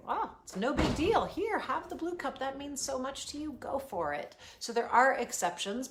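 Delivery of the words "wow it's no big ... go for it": easygoing giving in. Shown as a demonstration. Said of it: "sometimes it's okay to say".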